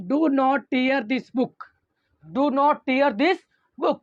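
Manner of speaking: each word stretched out slowly; slow example reading. Shown as a demonstration. Teacher reading the example slowly to students. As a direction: spell out the example sentence at dictation speed. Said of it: "जो सबसे पहला examples लिया हूँ".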